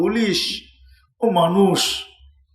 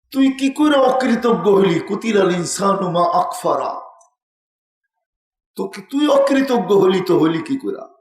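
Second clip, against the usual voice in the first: impassioned cry; 4 semitones higher than usual. Acted. Preacher crying out Quran's rebuke.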